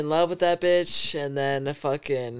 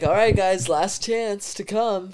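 lightly imitated last call, raised pitch; higher retold invitation, stretched at the end; tweaking stranger; 4 semitones higher than usual. Stranger giving the guys a last chance, lightly mimicked coaxing. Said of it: "this motherfucker's tweaking".

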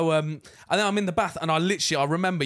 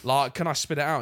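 talking through a mouthful; pleading with food in mouth; mouth full; 3 semitones lower than usual. Retold or imitated. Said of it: "with a mouthful".

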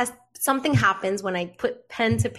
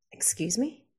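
indignant retort; 3 semitones lower than usual. Retold or imitated. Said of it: "And I was like".

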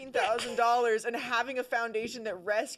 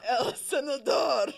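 loud, slow Spanish "El Senador" shouted through laughter; a shouted Spanish-accented "El Senador"; 4 semitones higher, 7 dB louder, slower than usual. Retold or imitated. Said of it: "say it with the accent".

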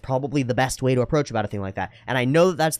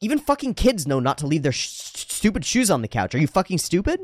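imitated exasperated rant, pitched up; mock-outraged housemate; angry scolding; 6 semitones higher than usual. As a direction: mimic an insulting telling-off in a higher voice. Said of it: "And she went".

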